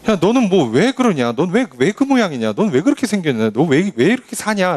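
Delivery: singsong pestering critic; mock nagging. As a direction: needle them with a run of reproachful questions. Acted nagging critic in sermon.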